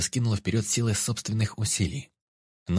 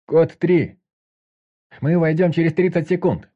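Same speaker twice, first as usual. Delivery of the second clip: loud command call; 9 semitones higher, 9 dB louder than usual. A narrator's reading. Squad calls through the door.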